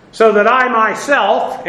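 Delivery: "I myself" slow and weighty; stress on "I myself". Shown as a demonstration. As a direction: lean deliberately on "I myself". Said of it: "emphasis on".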